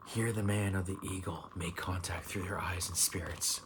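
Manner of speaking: measured card-text reading; reading aloud. Real, not acted. Tarot reader reads the Eagle card to viewer, reading aloud. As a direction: read the tarot card out evenly.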